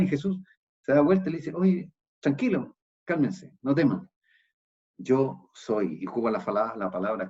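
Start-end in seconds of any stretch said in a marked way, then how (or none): 1.5-6.0 slow, soothing reassurance; Jesus calming his frightened disciples. Acted. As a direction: settle them down gently.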